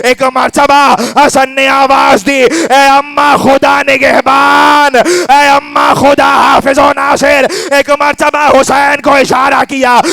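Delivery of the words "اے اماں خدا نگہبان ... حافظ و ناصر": wailing farewell cry. Acted. Hasan's loud farewell to mother.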